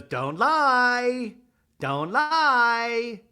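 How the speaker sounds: loud, high, wailed accusation; hammed-up accusing cry; mock accusation. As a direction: belt it out high with a long held last word. Acts Lisa's accusation.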